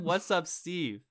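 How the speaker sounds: "Steve" said slowly and distinctly; slow down "What's up, Steve" so it can't be misheard; clarifying repeat. Shown as a demonstration. Host corrects co-host who misheard it, slowly and clearly. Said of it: "I said".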